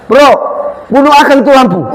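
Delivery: rough eastern Indonesian order to a friend; blunt eastern Indonesian command. Retold or imitated. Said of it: "Itu kan kasar sekali".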